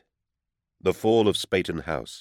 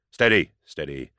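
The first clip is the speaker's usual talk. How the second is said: called out; 5 dB louder than usual. Acted. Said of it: "I cried out".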